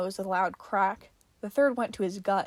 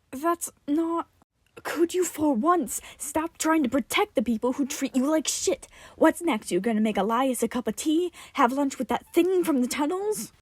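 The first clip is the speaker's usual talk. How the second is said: angry rant; 4 semitones higher, 4 dB louder than usual. Acted. Tim ranting at Martin.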